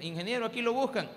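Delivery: insistent receptionist. Retold or imitated. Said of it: "allá como los veinte minutos".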